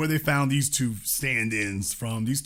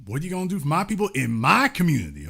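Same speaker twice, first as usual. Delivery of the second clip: slightly higher, faster mocking repeat of her question; 3 semitones higher, faster than usual. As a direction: parrot her plea back with mild mockery. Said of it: "why she gotta say it like that?".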